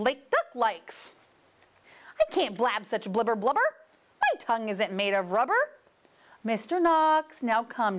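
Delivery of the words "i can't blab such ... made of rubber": fast complaint. Acted. Knox complains about twisters.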